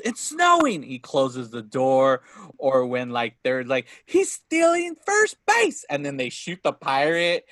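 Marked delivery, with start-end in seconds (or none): 0.0-0.8 high, stretched movie-quote holler; high-pitched hammed-up shout; imitated yell. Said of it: "he just yells". 4.0-5.8 high, loud, drawn-out cry; slow hammed-up shout of alarm; imitated pirate holler. Quoting pirates shouting at ballgame.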